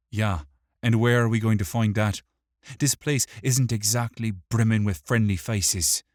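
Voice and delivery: quick, high, loud grumble; grumbling. A narrator's reading. Wick doubts they will find help, grumbling. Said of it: "Wick grumbled".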